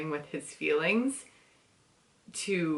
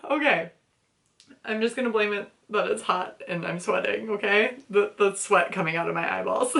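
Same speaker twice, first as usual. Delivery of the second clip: teary laughing; 3 semitones higher, faster than usual. Real, not acted. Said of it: "I'm getting teary".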